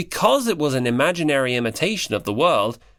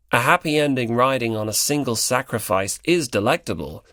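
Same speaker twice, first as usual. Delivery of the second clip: absent-minded; 2 semitones lower than usual. Acted. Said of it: "in an absent-minded voice".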